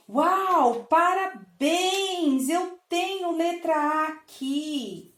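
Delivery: high, drawn-out, singsong "parabéns"; excited praise. Pretend. Mother praising her child's guess, sung excitedly. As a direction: cheer the child's guess slowly and brightly. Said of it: "E você vai dizer".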